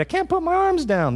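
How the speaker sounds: Randy's whine. Retold or imitated. Quoting Randy from A Christmas Story.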